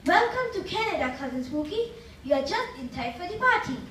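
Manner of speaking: a hint of Dracula; lightly voiced Dracula greeting. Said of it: "Do you like our Dracula?".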